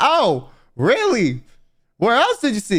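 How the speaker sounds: overly keen, excited, slow, swooping, drawn-out delivery. Imitating a cop questioning a boy about scratches: imitating an excited cop. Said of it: "Why you sound a little excited?".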